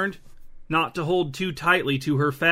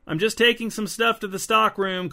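pitched up, calling across the store; called out; 7 semitones higher than usual. A narrator's reading. Bethany calling to the front, feigning calm. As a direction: call out brightly to cover. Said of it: "called Bethany".

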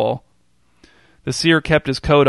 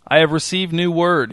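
grand prophetic announcement, higher; fortune teller; 4 semitones higher than usual. Acted. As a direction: proclaim it like a seer. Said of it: "he announced".

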